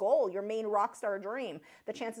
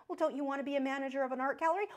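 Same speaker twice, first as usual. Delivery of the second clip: quick, coaxing, mildly imitated; coaxing adult voice; 3 semitones higher, faster than usual. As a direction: mimic an encouraging parent. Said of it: "we insisted".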